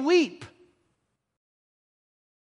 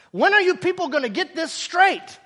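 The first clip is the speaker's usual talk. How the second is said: exasperated; 5 semitones higher than usual. Retold or imitated. Acting out exasperated Jesus.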